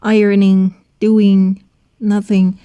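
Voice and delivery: Ironing, doing, nothing, each ending in a nasal ng; Ironing, doing, nothing with no hard final G; nasal ING ending. Shown as a demonstration. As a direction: model Ironing, doing, nothing firmly, letting each ending ring in the nose.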